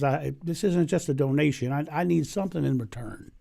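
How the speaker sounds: a hint of Southern drawl; lightly drawled Southern salesman. Colonel Sanders corrects the Pope in a light Southern drawl. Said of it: "in a southern drawl".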